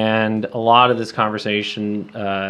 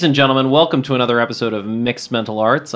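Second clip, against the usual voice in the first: fight announcer voice; 4 dB louder, faster than usual. Pretend. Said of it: "I always try and do a fake fight announcer voice".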